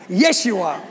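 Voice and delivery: "Yes, you are" with a laugh in it; amused, fond "Yes, you are"; laughing reassurance. Shown as a demonstration. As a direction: affirm them through a chuckle.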